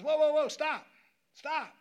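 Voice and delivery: shouted high and loud to stop the car; urgent yell. Retold or imitated. Friend yelling at the driver to pull over, urgent shout.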